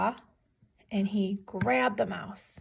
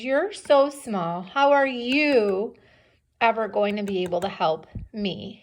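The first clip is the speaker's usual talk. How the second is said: lightly acted lion mocking the mouse; scoffing lion; 5 dB louder than usual. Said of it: "So the lion laughs at him".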